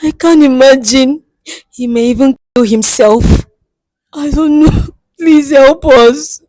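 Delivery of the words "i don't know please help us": crying. Acted. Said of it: "Don't cry".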